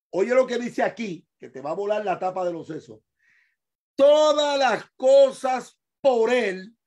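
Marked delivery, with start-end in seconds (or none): 4.0-6.8 slow, loud "Todas las cosas por él", each word weighted; stress on ÉL. Shown as a demonstration. Preacher teaching the verse, stressed ÉL. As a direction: set "él" apart as a stressed pronoun. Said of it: "él con acento en la E".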